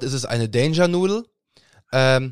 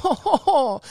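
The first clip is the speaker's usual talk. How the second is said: high laughing hohoho; 12 semitones higher, slower than usual. Real, not acted. Laughs at snake memory.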